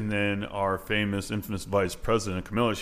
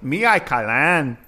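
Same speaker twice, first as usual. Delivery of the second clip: slow, louder mock Asian accent; 3 semitones higher, 6 dB louder, slower than usual. Shown as a demonstration. Guest answering a host's language challenge, mock Asian accent. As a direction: put on an Asian accent, drawn out. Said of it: "Or with an Asian accent".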